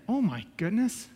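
quiet, slow, appalled aside; appalled disbelief. Retold or imitated. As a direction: mutter it slowly in disbelief. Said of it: "that's the most ridiculous thing I ever heard".

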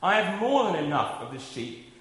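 measured, solemn Bible reading; scripture reading. Acted. Preacher reading Colossians to the congregation, solemn and measured. Reads Isaiah passage aloud.

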